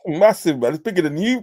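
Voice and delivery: teasing. Real, not acted.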